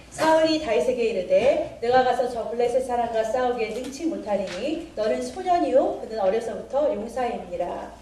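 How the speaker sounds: measured Bible reading aloud; scripture reading. Acted. Teacher reads a verse to the congregation, scripture reading. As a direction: read the verse out formally. 여러분 한 절 읽겠습니다.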